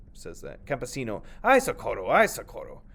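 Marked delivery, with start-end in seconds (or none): 1.4-2.8 high, loud panicked call; cry for help. Acted. The farmer fleeing the snake, crying for help. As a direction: shout for help as you flee.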